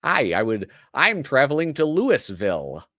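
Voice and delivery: Louisville als loo-iss-vill, every letter; tourist pronunciation. Shown as a demonstration. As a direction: spell out Louisville like an outsider. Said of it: "That drives him nuts".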